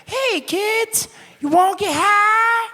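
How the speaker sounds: very high, hammed-up costume-mascot voice; hammed-up joint mascot greeting kids; cheesy mascot. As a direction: sell it like a goofy guy in a joint costume. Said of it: "he'd be like".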